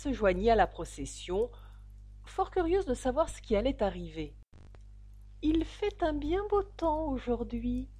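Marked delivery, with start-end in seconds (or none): 5.4-7.9 high, slow, tentative small talk; timid voice. A narrator's reading. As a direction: venture it shyly in a raised, slow voice. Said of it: "dit une voix timide". (voix timide et aiguë)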